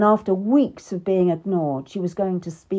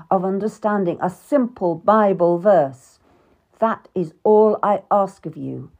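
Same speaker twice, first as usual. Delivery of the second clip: cold parting threat; 5 dB louder than usual. Acted. King Henry at the door to his wife, stern. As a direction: leave her with a final threat.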